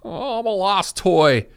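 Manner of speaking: high, slow, pitiful little voice; lost toy. Retold or imitated. Imitating Tom Hanks as a lost toy, high and pitiful. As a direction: whimper it like a lost child. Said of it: "that, uh".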